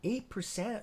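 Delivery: high-pitched, incredulous check; surprised question. Real, not acted. Streamer double-checking BlackBerry's gain, surprised. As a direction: query the number in real disbelief.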